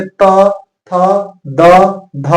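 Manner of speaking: त, थ, द, ध each alone, tongue against the teeth; letter-by-letter demo. Shown as a demonstration. Teacher sounds out त, थ, द, ध so students feel the teeth. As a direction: sound out त, थ, द, ध slowly with gaps. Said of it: "जैसे ही आप त, थ, द, द बोलेंगे".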